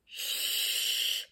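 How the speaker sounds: unvoiced hushed shh; whispered "shh"; whispered shush. A narrator's reading. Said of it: "they all whispered".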